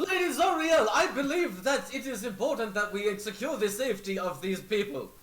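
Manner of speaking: loud, high commanding noblewoman; commanding noble lady. Acted. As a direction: call out like an imperious lady. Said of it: "Zariel would be like".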